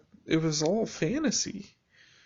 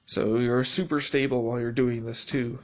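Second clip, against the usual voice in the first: sarcastic. Real, not acted. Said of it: "That's sarcasm".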